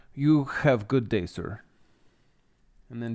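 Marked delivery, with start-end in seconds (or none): 0.1-1.6 put-on thick Russian accent. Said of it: "with a pretty thick Russian accent".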